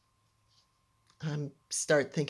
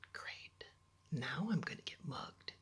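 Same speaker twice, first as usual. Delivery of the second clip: very soft, near-whispered resignation; glum inner thought; 13 dB quieter than usual. Retold or imitated. Girl in a cab fearing mugging, glum mutter.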